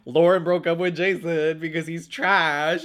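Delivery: can't hold back the giggles; laughing. Real, not acted. Telling viewers about the breakup, laughing while speaking.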